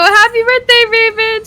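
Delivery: high, loud shouted quote; imitating a vine. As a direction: belt it like the clip. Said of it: "they go".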